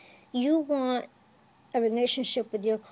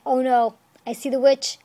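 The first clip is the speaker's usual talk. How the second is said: mock scream; 5 dB louder than usual. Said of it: "they start screaming like".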